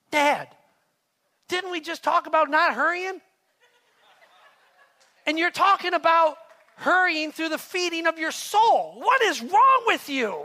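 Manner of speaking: loud, high, laughing through the teasing question; laughing daughter. Retold or imitated. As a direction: laugh at dad while you ask it. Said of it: "she laughs out loud and goes".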